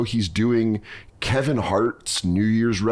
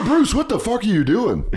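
mock shock; 11 semitones higher than usual. Reacting to impression.

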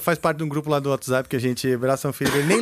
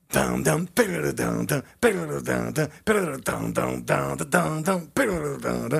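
humming the song rhythm; vocalized drum riff. Shown as a demonstration. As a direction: mouth music of a rock riff. Imitates a rock band's song.

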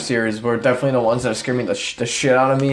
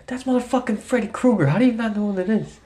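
mock disbelief; 8 semitones higher than usual. Guy tells his clueless friend who they just spotted, mock incredulous. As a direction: act out an astonished fan, voice pitched up. Acted disbelief in retold airport exchange.

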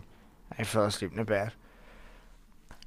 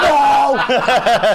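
high, loud mock wail; retold despairing cry; 13 semitones higher, 14 dB louder than usual.

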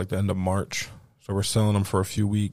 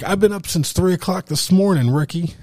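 higher, louder mock outburst; imitated real anger; 9 semitones higher, 7 dB louder than usual. Kid snapping at the man who beat him, imitated anger. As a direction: fire it off like a fed-up kid. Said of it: "Real angry".

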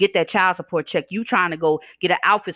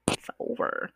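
whispered "it's over"; 9 dB quieter, slower than usual. Real, not acted. Telling exes it's done, in a whisper.

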